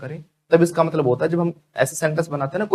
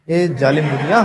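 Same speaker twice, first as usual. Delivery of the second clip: laughing lament. Acted.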